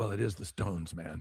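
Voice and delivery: voice dropped down low. Retelling what the guitarist asked: rock guitarist voice. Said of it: "In that Keith voice".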